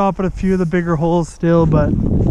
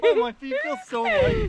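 squeaky voice pitched way up; squeaky high voice. Pretend. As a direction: squeak it out in delight. Joking about new waders.

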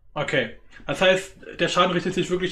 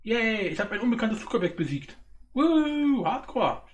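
shrieking jackpot winner; 5 semitones higher than usual. Real, not acted. Celebrates beating the UFO.

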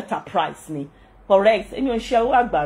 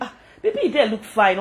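gushing follower. Retold or imitated.

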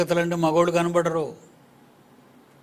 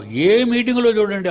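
emphatic rebuke; 7 semitones higher, 7 dB louder than usual. Real, not acted. Preacher rebukes men loudly.

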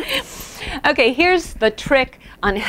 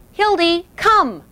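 high ringing call; a bright high Hildy, come; calling the dog; 7 semitones higher, slower than usual. Shown as a demonstration. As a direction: call her across the room. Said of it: "if you call to your dog".

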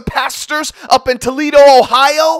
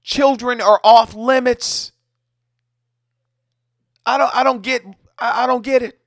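heated rant. Real, not acted. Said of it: "I just lose it".

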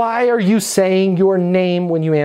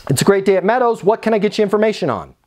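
higher, upbeat phone greeting, quick second half; smile through the phone; 4 semitones higher, much faster than usual. Shown as a demonstration. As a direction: answer positively and get down to business. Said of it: "like a smile through the phone".

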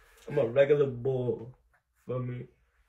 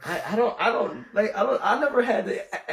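giggling through the words; laughing; 8 semitones higher, 3 dB louder than usual. Real, not acted. Laughing to his friend about a question he never got asked. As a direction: laugh while fumbling to explain.

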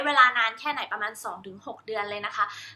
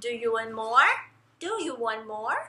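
gentle repeated question; 5 dB quieter, much slower than usual. Shown as a demonstration. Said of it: "แล้วเอามาชนกัน".

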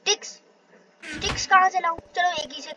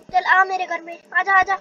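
a louder sing-song come-here call; coaxing call; 4 semitones higher, 5 dB louder than usual. Real, not acted. Luring a chicken into his house, an upbeat coaxing call. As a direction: beckon the animal cheerfully.

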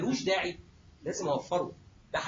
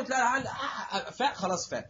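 chuckling through the words; laughing; 3 semitones higher than usual. Real, not acted. Lecturer laughing while telling the patient story. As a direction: laugh as you tell it.

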